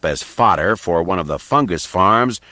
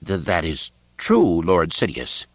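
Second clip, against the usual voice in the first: stammering. Acted. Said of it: "responded in a stammering voice".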